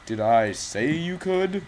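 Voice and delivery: drawn-out, rising mock outrage; hammed-up indignation, stretching the words; mock indignant scolding. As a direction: scold them slowly, playfully affronted. Scolding opponent taking his point.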